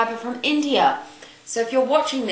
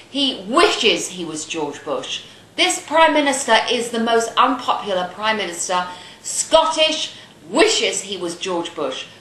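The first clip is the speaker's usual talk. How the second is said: angry rant; 3 dB louder than usual. Real, not acted. Ranting at the Scots.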